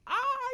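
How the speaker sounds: a sudden high imitated wailing cry; brief high mock weeping wail. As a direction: yelp out a fake sob sound. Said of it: "I wasn't weeping".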